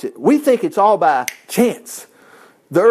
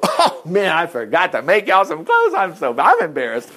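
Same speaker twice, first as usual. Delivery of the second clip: half-laughing, imagined embarrassed God; mock embarrassment. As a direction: voice it through laughter as an oops moment. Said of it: "God didn't go".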